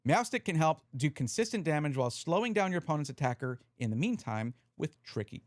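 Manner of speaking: talking through hiccups. Real, not acted. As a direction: hiccups breaking the words. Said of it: "God, I'm hiccuping".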